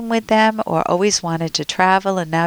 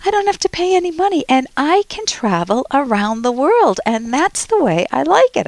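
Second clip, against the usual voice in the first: imitated Vietnamese accent, higher pitch; 8 semitones higher, 3 dB louder than usual. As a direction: quote him with a light Vietnamese accent. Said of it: "he says this in a Vietnamese accent".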